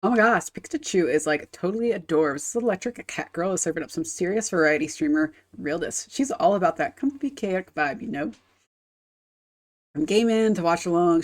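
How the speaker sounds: put-on lightly done Valley Girl accent. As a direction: read it like a bubbly Valley Girl. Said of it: "we're gonna read it like a Valley Girl".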